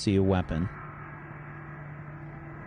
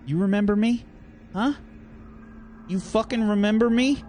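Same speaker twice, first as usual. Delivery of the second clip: enraged player screaming at the moderator; villain screaming. Acted. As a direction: scream it in her face. Villain yells at captive.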